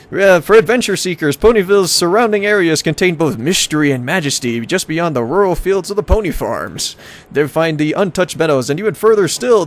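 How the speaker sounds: hammy travel-brochure announcer; tourism ad read. Acted. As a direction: sell the town like a promo. Reads travel brochure aloud.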